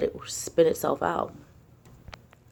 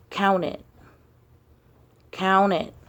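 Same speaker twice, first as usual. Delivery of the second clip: inner voice; 3 semitones higher, 3 dB louder, slower than usual. Retold or imitated. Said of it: "something said".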